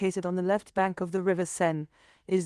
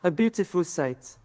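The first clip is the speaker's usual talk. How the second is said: lower-pitched poem in a French accent; 3 semitones lower than usual. Shown as a demonstration. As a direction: recite in a French accent, phrase by phrase. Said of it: "Speak with a French accent".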